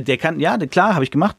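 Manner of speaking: mild mock boasting knight; proud boast. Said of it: "Voll stolz so".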